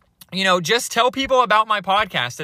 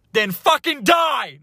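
slow, higher joking yell; mock angry shout; 8 semitones higher, 3 dB louder, slower than usual. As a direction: bellow it as a fake threat. Mock outburst at listeners.

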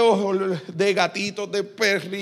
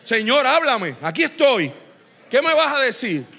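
prendido; 4 semitones higher than usual. Acted. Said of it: "Usted tiene que llegar prendido".

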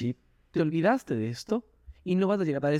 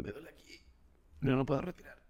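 a much softer mock whine; mock complaining; 8 dB quieter, faster than usual.

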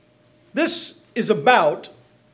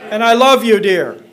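demo apology; 2 semitones higher, 8 dB louder, slower than usual. Shown as a demonstration. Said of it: "Just practice those".

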